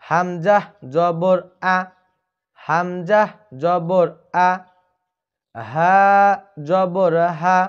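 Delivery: হামজা জবর আ said slowly, with a short crisp আ; correct short zabar. Shown as a demonstration. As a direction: drill the right short vowel on আ. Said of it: "এই জবরটাকে আমরা উচ্চারণ করব". (সঠিক ছোট জবরের উচ্চারণ)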